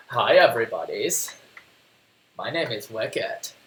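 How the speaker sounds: lightly voiced dopey talking dog; a hint of a dopey pet voice. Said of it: "he's still got the dopey voice".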